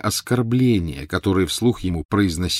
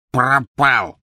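higher blurted elf voice; elf's anguished answer; 5 semitones higher, 5 dB louder than usual. A narrator's reading. Elf forced to confess, anguished blurt. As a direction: blurt out the dreaded word.

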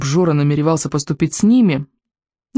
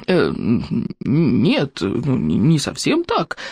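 choked gurgle; 3 semitones lower, much slower than usual. A narrator's reading. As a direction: stammer while being throttled. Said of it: "пробулькал придушенный Проглот. Голос у него сделался писклявым". (придушенное бульканье)

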